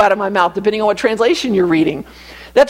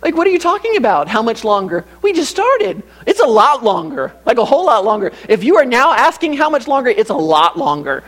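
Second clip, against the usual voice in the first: exasperated dad; 5 semitones higher than usual. Retold or imitated. Father exasperated at son's question.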